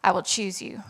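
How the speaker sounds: breathy whisper of a song line; whispered lyric. Acted. Woman recalling her song lyric to the church, whispered. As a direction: let the lyric slip out as a whisper.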